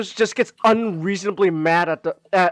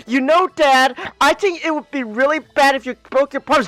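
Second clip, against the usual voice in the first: put-on kid voice; 5 semitones higher, 4 dB louder than usual. Kid guilt-trips dad.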